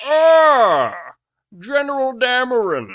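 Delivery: gloating villain. Acted. The villain gloating over his captured pilot. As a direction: greet your prisoner with relish.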